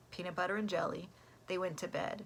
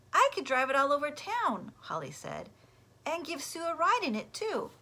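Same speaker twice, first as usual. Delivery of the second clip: eager Holly; 8 semitones higher, 6 dB louder than usual. Acted. Holly eager about cart.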